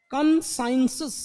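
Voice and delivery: कंसाइंसिस drawn out slowly, t said as s; slow demo pronunciation. Shown as a demonstration. Teacher slowly repeating the word for students. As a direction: spell out कंसाइंसिस slowly for the class. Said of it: "टी को एस बोल रहा है".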